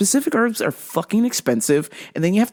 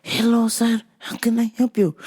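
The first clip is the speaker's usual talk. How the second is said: whisper; 4 semitones higher than usual. Retold or imitated. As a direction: greet the customer in a tiny hushed voice. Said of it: "He whispers".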